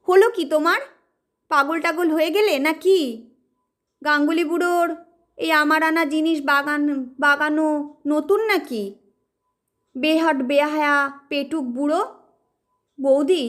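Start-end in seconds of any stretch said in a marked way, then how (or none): 0.1-12.0 angry shout. Acted. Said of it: "রেগে চেঁচিয়ে ওঠে".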